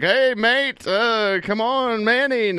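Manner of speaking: bad Australian accent. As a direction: put on a hammy Australian accent. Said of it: "bad Australian accent was like".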